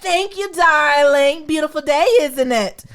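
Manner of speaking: put-on a light take on her Greek accent, grand and gracious; mild Greek-accented darling; Greek accent imitation. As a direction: do her accent with lavish charm. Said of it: "she got that accent".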